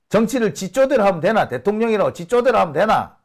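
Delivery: high, indignant Busan dialect, 쪼대로 stressed; quoted Busan dialect. Retold or imitated. Locals scolding the president in Busan dialect. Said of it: "라고 한답니다".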